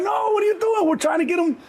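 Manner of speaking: hammed-up kids panicking at a mom shooting; panicked shout. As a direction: yell at mom to stop.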